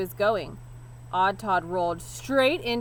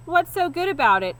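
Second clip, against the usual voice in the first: sharp annoyed retort, louder and higher; snapped; 6 semitones higher, 5 dB louder than usual. A narrator's reading. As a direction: bite it off irritably. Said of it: "Even Steven snapped".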